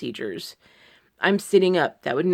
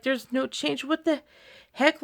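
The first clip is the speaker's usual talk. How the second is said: much higher, incredulous what the heck; exasperated disbelief; 9 semitones higher than usual. Retold or imitated. Retelling her reaction to a procedure with no change, high and exasperated. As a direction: squeak out frustrated disbelief. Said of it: "I was like".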